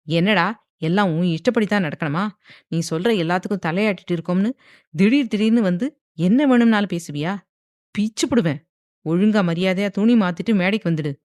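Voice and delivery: a father berating his headstrong son; angry father. Acted. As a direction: tear into the son for his defiance. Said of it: "என்றார் கோவமாக".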